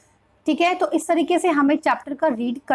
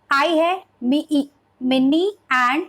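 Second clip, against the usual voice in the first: syllable by syllable; much slower than usual. Shown as a demonstration. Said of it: "syllable में करके बताएंगे".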